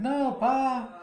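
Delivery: high, drawn-out mock refusal; retold protest. Acting daughter refusing to give up gun.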